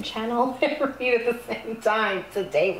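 words breaking into a laugh; flustered laughing. Real, not acted. Reader admitting trouble channeling and reading at once, flustered laughing. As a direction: laugh at your own fumble.

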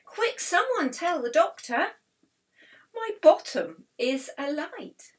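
high, loud panicked alarm; frightened. A narrator's reading. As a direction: cry out urgently for help, like a frightened firefly. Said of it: "whose face was filled with fright".

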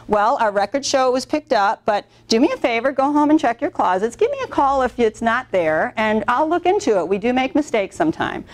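friendly shop owner offering help; "go home and check your closets" as a kind request; polite, helpful. Shown as a demonstration. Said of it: "if she would have talked to me that way".

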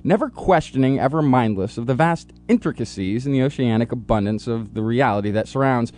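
solemn, grand announcer read; dramatic intro read. Acted.

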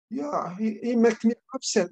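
put-on upset child explaining. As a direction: lightly play a cross little boy. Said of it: "he said".

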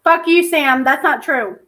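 loud furious retort; angry shout. Real, not acted. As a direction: snap back in anger. Angry reply to accuser.

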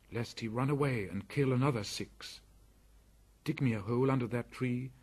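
put-on young boy voice. Mowgli resolves to return the ankus.

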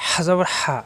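হা with a tight, rushing breath from the throat; strong Arabic হা; pressed throat h. Shown as a demonstration. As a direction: squeeze each হা out of the throat. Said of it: "কণ্ঠনালীতে চাপ".

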